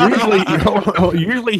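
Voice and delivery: real giggle; laughing. Real, not acted. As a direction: break up laughing as you begin. Laughs mid-sentence.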